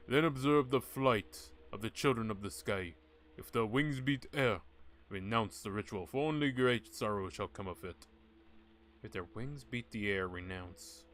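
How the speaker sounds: grand, ominous prophecy read aloud; booming oracle warning the witch doctor; dramatic scroll reading. Acted. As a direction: intone it like an ancient prophecy. Reads ritual scroll dramatically.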